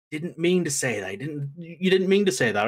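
hurried excuse-making, pitched a little up; mock pleading defense. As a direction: lightly act out covering for a friend. Sammy defends Jay to the chief.

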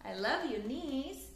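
lively, sing-song storybook reading; reading to children. A narrator's reading. Teacher reading a picture book aloud to children, lively storytelling. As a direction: read it like bedtime story time for little ones.

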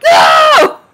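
high loud shouted no; exasperated no. Retold or imitated. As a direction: shout the refusal high and sharp. Answering are you sure, exasperated.

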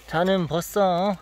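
slow, drawn-out Gyeongsang dialect line. Acted. The consultant hams up his Gyeongsang dialect, slow. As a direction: drag it out in a folksy Gyeongsang dialect. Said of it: "찰지게 사투리를 한번 해봐야".

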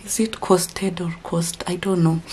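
a quick unvoiced self-check; whispered aside. Real, not acted. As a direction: whisper the question to yourself, unsure. Unsure aside to herself.

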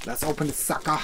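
a hint of a gruff tough-guy growl; lightly voiced Mr. T tough guy; half-hearted B. A. Baracus growl. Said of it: "I'm so, sounding like B A Baracus".

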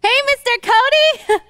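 bright call across the stage. Acted. Calling him from offstage.

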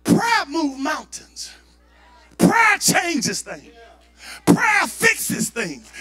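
slow preaching. Acted. Preaching slow emphatic lines.

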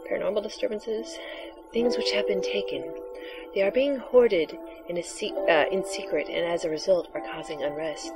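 hushed mystical seer; breathy oracle voice. Acted. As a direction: softly intone the prophecy. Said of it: "your breathy, sexy voice for the oracle".

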